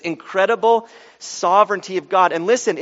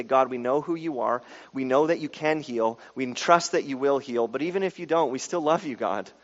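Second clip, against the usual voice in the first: soft, lower sincere prayer; quiet surrender, sinking at the end; humble prayer; 4 semitones lower, 7 dB quieter than usual. Shown as a demonstration. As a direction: speak tenderly and trustingly to God. Models a humble prayer to God.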